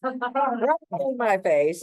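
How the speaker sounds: high, slow words broken by real laughter; laughing through it. Real, not acted. Telling of the chipmunk in her face, laughing. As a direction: laugh your way through the line.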